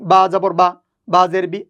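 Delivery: short vowels in বা and বি, no lingering; quick recitation. Shown as a demonstration. Teacher showing how harakat are read, quick recitation. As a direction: recite বা জবর বা briskly, without drawing out the vowel. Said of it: "উচ্চারণ তাড়াতাড়ি করতে হয়".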